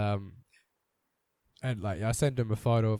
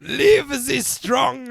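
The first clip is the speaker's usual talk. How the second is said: mock slogan, laughing; 11 semitones higher, 11 dB louder, much slower than usual.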